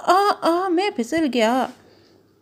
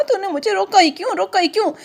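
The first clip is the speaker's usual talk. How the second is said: mild threatening caterpillar. Acted. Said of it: "सूंडी ने कहा".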